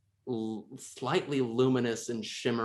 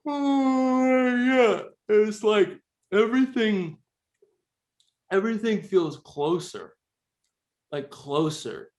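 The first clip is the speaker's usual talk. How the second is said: put-on high, slow spooked kid; drawn-out high childlike voice; high child voice; 11 semitones higher, 5 dB louder, slower than usual. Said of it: "he goes".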